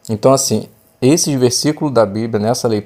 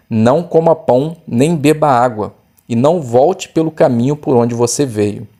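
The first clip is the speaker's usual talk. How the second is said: measured Bible reading voice; scripture reading; 3 semitones higher than usual. Acted. Teacher reading the Bible text aloud to the class, measured. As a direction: read the passage clearly and evenly.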